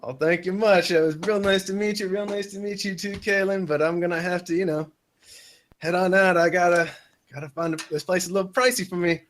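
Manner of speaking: a light drawl borrowed from the man he's talking to; friendly laid-back drawl, copying the other man; mimicking a drawl. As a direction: ease into his drawl to blend in and put him at ease. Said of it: "I'm trying to mimic him a little bit too with his drawl".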